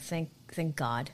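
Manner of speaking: slow, hushed mock-relieved whisper. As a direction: breathe it out like grateful parents. Parents relieved she got work.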